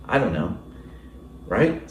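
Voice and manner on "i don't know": flat and short, a bit dismissive; curt. Shown as a demonstration. Answering a question curtly, flat and dismissive. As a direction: brush the question off. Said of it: "Two totally different ways of responding".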